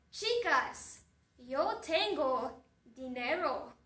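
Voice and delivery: calling out loud across the store; yelling. Acted. Juan shouting to the girls in the shop, loud yell. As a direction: shout it to get the girls' attention. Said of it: "Juan grita".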